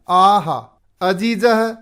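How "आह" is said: a short, much louder aah of pain; loud cry. Retold or imitated. Teacher voicing the master's loud shout of pain. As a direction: yell the aah as the bee stings. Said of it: "जोर से चिल्लाता है".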